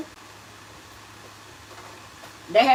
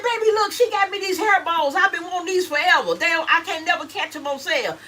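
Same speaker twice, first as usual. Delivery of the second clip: excited; 5 semitones higher than usual. Retold or imitated. Showing gift to husband excitedly.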